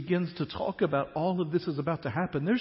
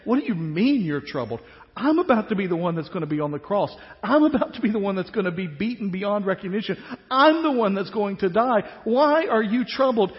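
mock indignant Jesus; 3 semitones higher, 6 dB louder than usual. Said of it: "kind of saying".

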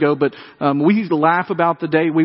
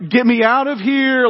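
mock frightened plea; 6 semitones higher than usual. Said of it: "somewhere between screaming".

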